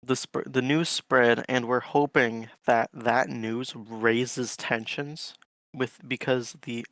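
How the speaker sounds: slightly slurred tipsy speech. Real, not acted. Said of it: "I'm too tipsy to explain this correctly".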